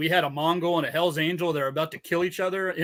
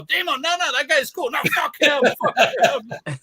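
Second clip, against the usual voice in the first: high mock pleading; 9 semitones higher than usual.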